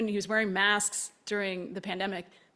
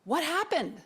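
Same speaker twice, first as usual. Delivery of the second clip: genuinely curious; 8 semitones higher than usual. Retold or imitated. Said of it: "in a voice of genuinely wanting to know".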